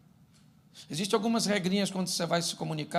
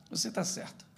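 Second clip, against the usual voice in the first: soft, barely voiced concession; quiet resignation; 3 semitones higher, 8 dB quieter than usual. Wife going quiet in a late-night argument, softly conceding. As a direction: give in quietly.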